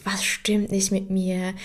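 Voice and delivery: anxious whisper to herself; whispered self-doubt. Retold or imitated. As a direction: breathe the worried question under her breath. Anxious inner thought about herself.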